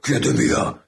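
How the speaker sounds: inward-swallowed superhero voice; Batman. Retold or imitated. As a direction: imitate the meme hero talking inwards. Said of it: "Sí, hacia adentro". (voz de superhéroe hablando hacia adentro)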